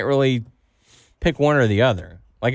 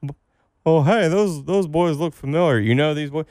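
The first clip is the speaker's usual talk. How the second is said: higher country twang, put-on old redneck; an indignant redneck spotting trespassers; podcast host plays a backwoods farmer accusing two boys; hillbilly shed owner; 3 semitones higher than usual.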